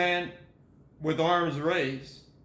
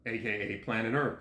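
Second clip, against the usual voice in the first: lower-pitched gloss; parenthetical aside; 6 semitones lower, 3 dB quieter than usual. Real, not acted. Reader giving another name, lowered aside. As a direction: step down in pitch for the bracketed name.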